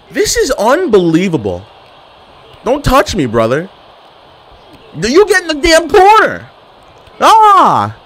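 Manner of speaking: loud, high yell at the wrestler; yelling at game. Real, not acted. Gamer yelling at his wrestler, loud and high. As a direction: shout him into the corner.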